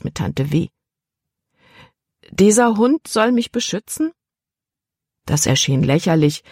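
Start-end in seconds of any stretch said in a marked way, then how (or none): 2.3-4.1 put-on incredulous girl. A narrator's reading. Libby doubts the dog.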